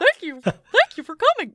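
high squeaky cartoon mouse; Mickey Mouse voice. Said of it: "You can make a Mickey Mouse".

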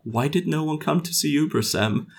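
soft, earnest, wounded question; sad, earnest. Retold or imitated. Developer retells asking a teammate about the absent crowd, sad. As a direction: ask it softly with sincere sadness. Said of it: "like, with sadness in my eyes".

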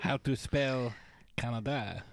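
put-on goofy French-Canadian accent, Borat-like; hammy French accent, halting English; Patrice Bergeron French accent. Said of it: "Patrice Bergeron sound like Sacha Baron Cohen?".

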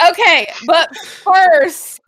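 slow words through real laughter; laughing. Real, not acted. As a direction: still laughing while talking. Player laughing after the bit.

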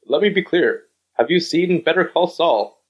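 lightly put-on politician's pronouncement; Donald Trump. Co-host breaking in with a silly Trump impression, mock presidential. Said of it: "Trump said".

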